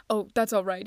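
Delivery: hearty, mock-merry exclamation; merry cry. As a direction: brush the worry off merrily and loudly. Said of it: "he cried with a merry laugh".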